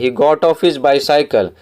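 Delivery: very slow, every word spaced out for the class; slow read-aloud. Shown as a demonstration. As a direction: read the line slowly so pupils can follow. Teacher reads story passage slowly.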